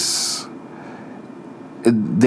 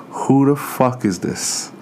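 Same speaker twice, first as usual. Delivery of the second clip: slow stunned father voice; a stunned, muttering dad; 3 semitones higher, slower than usual. Retold or imitated. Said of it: "his jaw just whoop".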